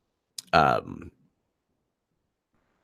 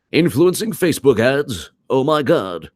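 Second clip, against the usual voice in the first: higher-pitched sarcastic disbelief; mock outrage; 5 semitones higher than usual. Streamer mocking Democrats' claims of foreign meddling, mock outrage. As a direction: feign shock, pitch jumping up.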